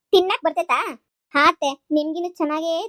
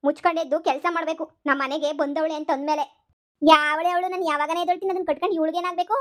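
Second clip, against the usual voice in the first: scolding mother-in-law; 2 semitones higher than usual. Acted. Mother-in-law scolds lazy daughter-in-law.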